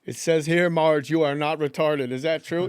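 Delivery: lightly voiced cheesy game show host. Comic quoting a game show host bit, mock host voice. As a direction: ham up a smarmy host quizzing Marge. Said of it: "pretend he was the host".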